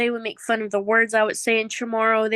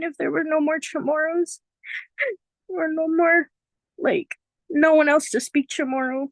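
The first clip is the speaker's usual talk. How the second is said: holding back tears; 5 semitones higher than usual. Real, not acted. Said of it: "Oh my God, I don't wanna cry".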